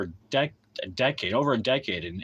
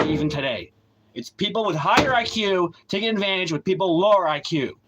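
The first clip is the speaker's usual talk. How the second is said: raised, heated ranting; angry rant; 5 semitones higher, 3 dB louder than usual. Real, not acted. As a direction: lecture them with rising anger.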